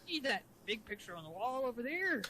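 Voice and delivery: lightly voiced cartoon crab boss; cartoon sea-captain lilt; Mister Krabs. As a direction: play the chief as a cartoon crab. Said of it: "the Mister Krabs voice".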